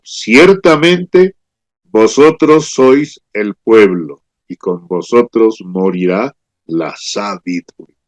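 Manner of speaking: ironic Job. Acted. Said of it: "Job está siendo irónico".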